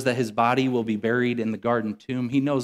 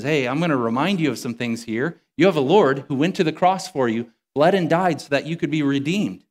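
louder, rising preaching; voicing the Holy Spirit with fervour; 3 semitones higher, 5 dB louder than usual. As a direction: proclaim it to the congregation.

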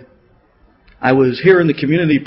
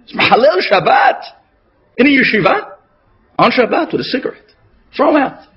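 much higher, outraged cry; indignant shout; 8 semitones higher than usual. Retold or imitated. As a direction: cry out in disgust, demanding expulsion. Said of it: "many of the Rabbanim said".

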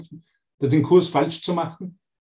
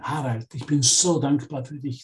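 gentle loving voice; 2 semitones lower than usual. Retold or imitated. Holy Spirit reassuring a student, gently and tenderly. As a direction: comfort them like a loving guide. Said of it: "sagt das Heilige Geist".

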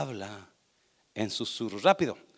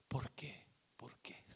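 hushed; 6 semitones lower, 21 dB quieter than usual. Shown as a demonstration. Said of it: "Cuando usted le susurra".

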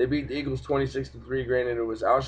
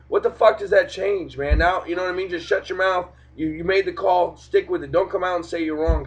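higher, heated rant at the refs; angry rant; 5 semitones higher than usual. Real, not acted. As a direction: vent hard, pushing the pitch up. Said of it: "I'm gonna go off for a second here".

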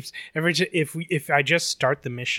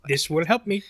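higher-pitched mock game-character line; Monica; 4 semitones higher than usual. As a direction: parody a chatty game character. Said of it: "she has the worst accent".

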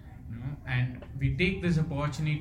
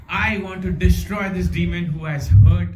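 retold anger; 3 semitones higher, 8 dB louder than usual. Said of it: "he was so angry".

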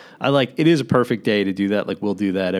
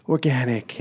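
condescending voice; 3 semitones higher, slower than usual. Acted. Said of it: "I shouldn't have done the condescending voice for organic".

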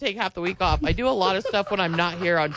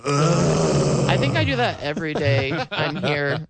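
slow, hammed-up whimper; mock sobbing reply; mock crying; 3 semitones lower, much slower than usual. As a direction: whine it out like a fake sob. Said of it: "And then Amory goes".

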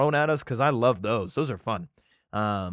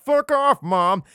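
much higher and louder, shouted at mom; mock yell; 8 semitones higher, 8 dB louder, much slower than usual. Kidnapper yelling at the mother as he takes her kids. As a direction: bark it like a thug snatching her kids.

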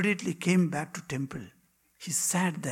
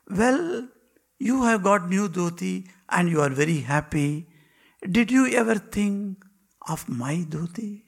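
louder, higher pointed question; teasing rebuke; 3 semitones higher, 6 dB louder than usual. Acted. Master asking the disciple about his own cloth, raised and pointed. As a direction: prick his conscience.

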